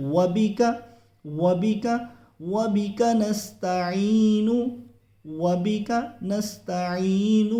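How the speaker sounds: very slow, melodic recitation. Shown as a demonstration. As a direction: recite it slowly for the learners. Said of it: "جلدی سے پڑھنا ہے". (آہستہ ترتیل سے تلاوت)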